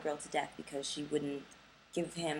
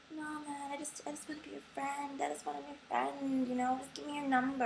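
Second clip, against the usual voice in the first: pitched-up mock of a pushy guy; high mocking guy voice; 7 semitones higher than usual. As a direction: mimic the pushy man, high. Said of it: "they go".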